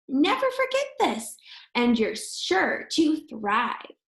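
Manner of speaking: put-on lively sing-song rhyme for kids; reading verse to children. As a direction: read the poem brightly to a class. Reads rhyming verse to children.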